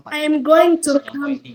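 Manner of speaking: I AM GOING TO COME, dropping at the end; demonstrated statement tune falling onto "come"; falling intonation. Shown as a demonstration. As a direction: let "come" settle downward. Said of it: "falling intonation".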